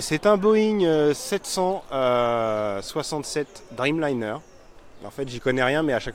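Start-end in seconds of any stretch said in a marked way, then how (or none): 0.0-4.4 a light mock expert tone, drawn out on the numbers; know-it-all guy. Tourist showing off about the plane, a mildly mock expert voice. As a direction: play the guy who knows planes, only half seriously. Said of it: "faire un peu le mec qui s'y connaît".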